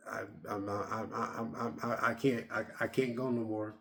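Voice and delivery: soft, low, stammering exhaustion; exhausted. Retold or imitated. Retelling the jock giving up, soft low exhausted stammer. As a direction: stammer like you're spent.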